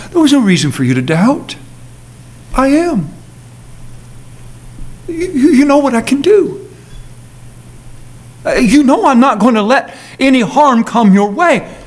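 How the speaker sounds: Jesus gently reassuring Peter; calm, loving assurance; tender reassurance. Acted. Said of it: "this is a tender moment".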